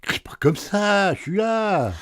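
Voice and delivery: high, drawn-out reply from another room; high-pitched, unhurried answer from afar; calling back. Acted.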